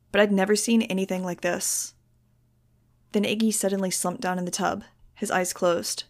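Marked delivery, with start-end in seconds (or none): none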